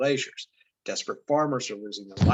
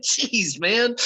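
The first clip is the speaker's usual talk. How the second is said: rising, louder mock exasperation at himself; exasperated exclaim; 11 semitones higher, 6 dB louder than usual. Real, not acted. Teacher groaning at his own quiz mistake, exasperated. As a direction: scold yourself, half laughing. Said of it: "reacts to own wrong answer".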